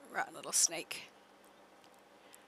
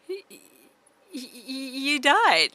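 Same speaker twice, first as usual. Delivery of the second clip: stammering laugh; 7 semitones higher, 12 dB louder than usual. Real, not acted. Player finding her horse dead, stammering through laughter. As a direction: choke on laughter getting it out.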